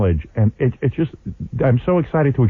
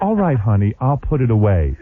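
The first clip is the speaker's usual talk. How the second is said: a touch of Stepford sweetness; gentle, compliant honey tone; Stepford wife; 3 semitones lower than usual. Retold or imitated. Husband repeating it to wife, lightly sugary Stepford voice. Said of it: "I was talking like a Stepford wife".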